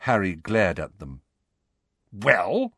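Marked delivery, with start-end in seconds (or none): 2.1-2.7 mildly impatient demand. Acted. Harry presses his two friends for more, demanding. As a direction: press them for an answer. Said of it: "he demanded".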